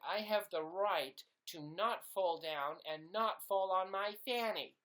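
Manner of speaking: high, loud hammed-up American actor voice; American accent. Pretend American actor auditioning, loud high American accent. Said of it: "the best way to do an impression of America".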